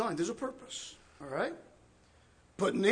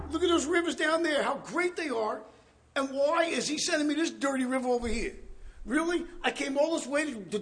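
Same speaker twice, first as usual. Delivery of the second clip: raging Naaman; 4 semitones higher than usual. Acted. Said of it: "went away in a rage".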